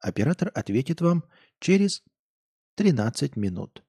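polite recorded hold message; sing-song operator announcement; customer service voice. Pretend. Mock call-center hold message.

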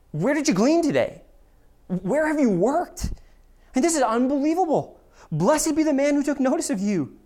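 high, loud, astonished outburst; shocked mother-in-law. Retold or imitated. Naomi stunned by Ruth's haul, gasping out questions and blessing. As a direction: voice the old woman's disbelief and delight. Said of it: "read into this the shock and surprise".

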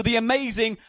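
big showbiz intro; announcer shout. Real, not acted. Host announcing guest loudly.

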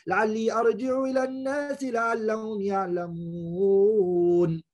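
steady, chanted verse recital; Quran recitation. Acted.

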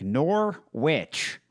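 "Norwich" with a full W, "nor-witch"; American Norwich. Retold or imitated. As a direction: say "Norwich" as two heavy syllables, nor-WITCH. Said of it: "Americans would be like".

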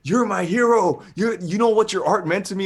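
high, loud mock-crying gush; imitated tearful fans. Tearful fans meeting their idol at dinner, imitated high, emotional gushing. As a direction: gush like an overwhelmed fan, voice way up. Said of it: "these people are crying meeting me".

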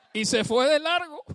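laughing through the punchline. Real, not acted. Preacher laughing at his own anecdote, real laugh. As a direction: laugh it out at the end of the joke.

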